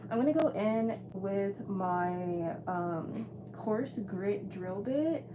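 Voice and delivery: muffled behind a mask; talking through a mask; through a face mask. Real, not acted. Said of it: "I have my mask on".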